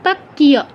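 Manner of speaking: "পাক্কিয়" as pak-kiya. Shown as a demonstration. Teacher extending the rule, "পাক্কিয়" as pak-kiya. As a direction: sound a full y after k in "পাক্কিয়". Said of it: "ইয়ফলা থাকতো".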